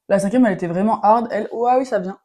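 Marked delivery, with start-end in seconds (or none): 1.3-2.2 chili heat rising on the tongue; words through a burning tongue; mouth burning from spicy food. Real, not acted. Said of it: "Ça me tatoue la langue".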